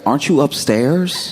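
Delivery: retold incredulous query; puzzled question. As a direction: question it in doubt, voice climbing to the end. Retold text challenging his traffic excuse.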